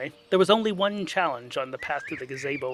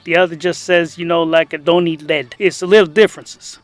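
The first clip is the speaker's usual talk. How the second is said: louder casual rambling priest; 2 semitones higher, 9 dB louder than usual. Acted. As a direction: ramble like a laid-back priest.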